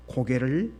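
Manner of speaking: ordinary delivery, nothing marked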